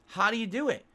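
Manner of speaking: panicky classmate. Retold or imitated. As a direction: rattle off her worries like a stressed teen. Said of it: "And she goes".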